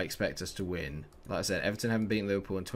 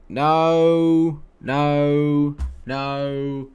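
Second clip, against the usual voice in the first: anguished no; 5 semitones higher, 10 dB louder, much slower than usual. Real, not acted. After conceding, despair.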